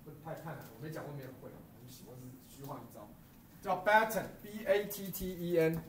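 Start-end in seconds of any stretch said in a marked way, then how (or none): 3.6-5.8 spelling batten out letter by letter, slowly. Shown as a demonstration. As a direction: dictate "batten" slowly for notes. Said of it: "记下来哈". (慢慢拼出 batten 让学生记)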